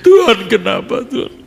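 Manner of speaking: high, loud wailing complaint, hammed-up; mock crying to God. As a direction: wail at God like a crybaby, acted. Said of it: "tapi kita hanya berkata". (ratapan menangis pura-pura, tinggi dan keras)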